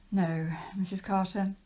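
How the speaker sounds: meek whispered reply. Acted. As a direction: whisper a dutiful yes. Governess answers her employer.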